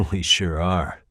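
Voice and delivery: slow words through a chuckle; laughing. Acted. Detective answering Mamiya-san, chuckling slowly. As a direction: laugh it off, amused.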